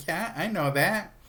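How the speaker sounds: high, slow mock impatience; exasperated. Betty answers Archie's warning, exasperated. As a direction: draw it out as if it were obvious.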